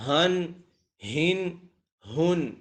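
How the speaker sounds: slow tanween demo; recited hun. Shown as a demonstration. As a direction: model ہن for the class. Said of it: "اب ہا آ گیا".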